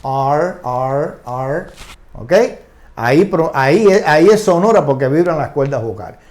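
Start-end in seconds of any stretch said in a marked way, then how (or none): 0.0-1.6 "R" held as a low English "ar", three times apart; voiced R. Shown as a demonstration. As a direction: let each "R" vibrate in the throat, pitched low. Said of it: "pronuncian la R".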